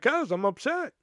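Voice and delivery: mildly worked-up reenactment of being upset; retold upset. Worker answers Cynthia about the slammed door, retold upset. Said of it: "I'm upset because".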